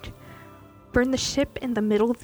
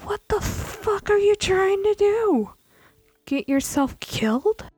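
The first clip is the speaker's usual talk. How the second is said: slow, higher and louder stern scolding; furious slow hiss-turned-shout at a reckless crewmate; 11 semitones higher, 6 dB louder, slower than usual. Acted. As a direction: bite down on every word like an angry captain. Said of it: "a very stern voice".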